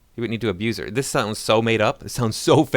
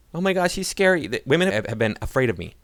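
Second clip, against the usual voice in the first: mocking scared woman; 4 semitones higher than usual.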